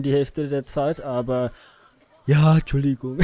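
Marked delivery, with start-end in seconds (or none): 2.3-3.2 laughing apology. Real, not acted.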